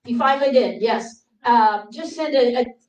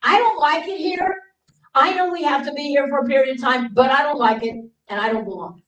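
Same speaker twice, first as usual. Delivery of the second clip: tearful cry; 4 semitones higher than usual. Retold or imitated. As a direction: voice breaking as she pleads. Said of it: "cry and say".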